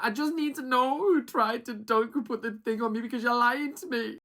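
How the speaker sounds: high, indignant imitation; mock kicking off. Recapper imitating a contestant demanding the culprit, mock outrage. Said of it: "everyone's kicking off".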